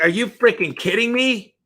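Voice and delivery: high, amazed exclamation; can't believe what you're seeing; stunned disbelief. Retold or imitated. Reacting to huge applicant numbers.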